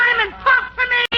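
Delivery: calling into a bottle. Pretend.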